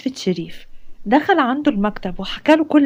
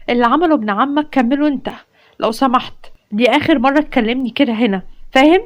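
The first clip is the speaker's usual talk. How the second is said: angry rebuff; 3 semitones higher than usual. Acted. Soha scolding Fares for his lunch invitation, building anger. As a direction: put him in his place, rising hard at the end.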